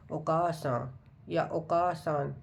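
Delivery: "ओकासान" slowly with a long a; slow careful "ओकासान या ओकासान"; how anime characters say mother; Japanese word. Shown as a demonstration. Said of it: "ऐसे ही pronounce करते हैं".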